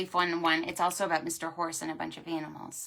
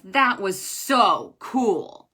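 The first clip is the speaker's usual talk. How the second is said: happy horse; 8 dB louder, much slower than usual. Acted. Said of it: "says happy Mister Horse".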